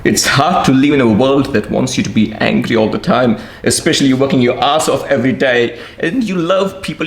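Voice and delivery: pleading, voice on the edge of crying; tearful plea. Real, not acted. Emotional plea about struggling.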